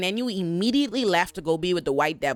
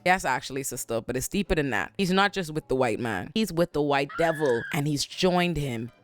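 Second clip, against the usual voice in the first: lower, grave mock-dramatic reply; solemn Louis; 4 semitones lower than usual. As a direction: deliver it like a dark confession. Louis answering his sister gravely.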